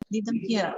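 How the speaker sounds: "them" reduced, unstressed; weak them. Shown as a demonstration. Teacher modelling weak "them". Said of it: "So here them is a weak form".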